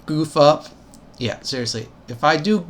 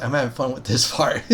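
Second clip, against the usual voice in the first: real chuckle breaking in; having fun, laughing a little; amused laugh; 3 semitones lower than usual. Real, not acted. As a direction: let a small laugh slip out near the end. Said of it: "Sorry, I'm just laughing".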